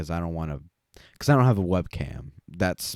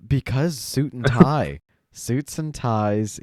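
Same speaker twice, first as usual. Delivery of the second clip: excited; 6 semitones higher, 5 dB louder, slower than usual. Real, not acted. Excited explanation.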